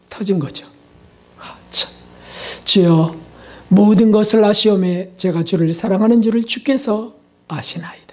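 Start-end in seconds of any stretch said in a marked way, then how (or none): 1.4-8.0 whispered, tearful confession. Retold or imitated. Peter confessing his love to Jesus in a tearful whisper. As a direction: breathe it out through tears. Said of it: "눈물을 글썽이며".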